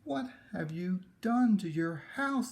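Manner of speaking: high, loud shouted question; a crowd shouting at a neighbour. Acted. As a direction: yell it at him across the street. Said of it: "they shouted at the man".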